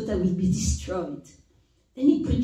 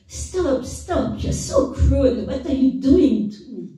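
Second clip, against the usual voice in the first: pleading cry, high at first, then settling; distressed plea; 4 semitones higher than usual. Retold or imitated. Cup begging the master to stop, distressed. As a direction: beg him to stop, hurt and dizzy. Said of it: "I told him".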